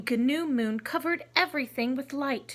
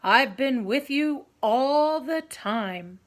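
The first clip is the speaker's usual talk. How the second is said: deep tiger voice; 6 dB louder, slower than usual. Acted. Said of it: "the tiger's deep voice answered".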